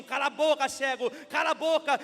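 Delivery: loud retold rebuke; forceful acted hushing; crowd silencing him. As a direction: imitate a crowd shouting someone down. Crowd silencing the shouting blind man.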